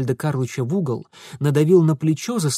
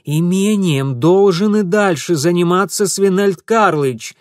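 louder pointed statement; raised voice; 5 semitones higher, 7 dB louder than usual. Acted. Mitya raising his voice for the hidden man. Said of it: "снова возвысил голос".

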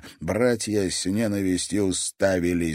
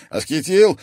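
grimacing; 7 semitones higher, 7 dB louder than usual. Acted. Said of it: "скривился Альф".

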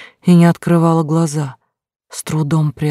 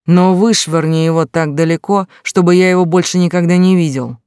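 put-on drunk, slurring and barely intelligible; slurred drunk rant, swelling louder; town drunk; 4 dB louder than usual. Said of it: "ответил почти неразборчиво".

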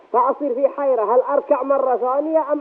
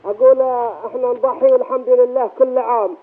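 raised voice. Real, not acted. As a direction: speak up for the listener. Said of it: "ارفع صوتك".

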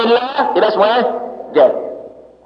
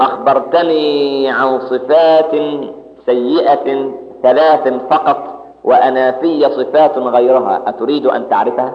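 calm reply; 6 semitones lower, slower than usual. Retold or imitated. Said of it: "قال له".

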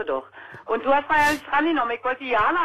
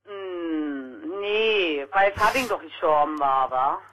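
low, subdued, near tears; sad; 6 semitones lower, much slower than usual. Real, not acted. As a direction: voice heavy with grief. Recalling her dead father.

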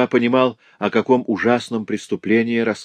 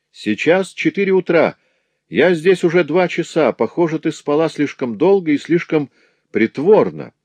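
mocking master. Master threatening the girl, sneering. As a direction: taunt her, then warn.

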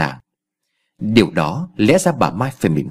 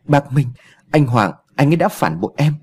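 whisper sobbing; 4 semitones higher than usual. Acted. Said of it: "nói từng chữ trong tiếng khóc nức nẻ".

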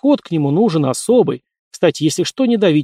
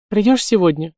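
cooing; 6 semitones higher than usual. A narrator's reading. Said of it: "проворковала Пахомова на ухо Николаю".

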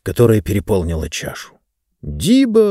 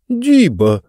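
оклик; 9 semitones higher than usual. Acted. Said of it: "послышался голос книги".

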